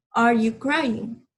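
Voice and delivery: slow model question. Shown as a demonstration. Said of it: "En inglés lo harías de esta forma".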